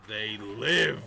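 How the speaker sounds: low zombie cry, rising up. Acted. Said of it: "drop the zombie voice now".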